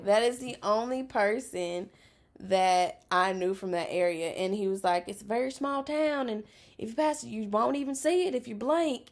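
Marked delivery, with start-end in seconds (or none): 5.1-9.1 put-on dentist's North Louisiana accent. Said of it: "his accent is super strong".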